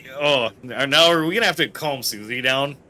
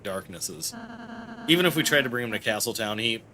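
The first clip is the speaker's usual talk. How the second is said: lightly voiced gentle character, slightly subdued; Ralsei explaining sadly; 2 semitones lower, 4 dB quieter, faster than usual. Ralsei gently explains the old man statue to Susie, mildly subdued. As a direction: explain it carefully, with a touch of sadness.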